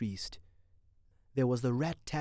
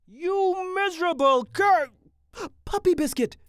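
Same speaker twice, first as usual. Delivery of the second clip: indignant outburst; 10 dB louder than usual. Acted. Mitty cursing the attorney he struck, indignant and loud. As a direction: cry out in heroic outrage. Hero insults man in courtroom daydream.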